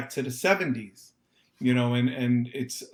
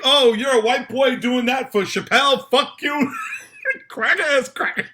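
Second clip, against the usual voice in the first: loud, high jeering insult; hostile heckler; 9 semitones higher, 4 dB louder than usual. Retold or imitated. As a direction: taunt him like a hateful commenter. Imagined hostile live stream commenter.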